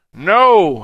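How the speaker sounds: high, full-voiced shouted no; shout back. A narrator's reading. Dan answers the crowd, shouting back. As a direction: throw the shout right back. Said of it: "he shouted back".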